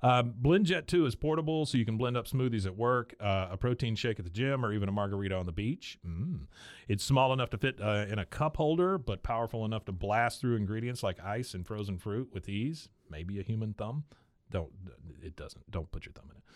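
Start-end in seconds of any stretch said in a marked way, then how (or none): 0.4-6.0 scripted product pitch; sponsor ad read. Acted. Host telling listeners where to blend, ad read. 6.9-12.9 scripted product pitch; sponsor ad read. Acted. Host telling listeners where to blend, ad read.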